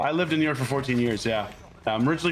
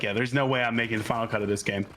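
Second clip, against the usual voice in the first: laughing; 3 semitones lower, faster than usual. Retold or imitated. Retold thought, laughing.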